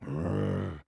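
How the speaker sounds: soft mock roar grrr; a lightly voiced engine growl; mild growl. A narrator's reading. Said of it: "Diesel roared".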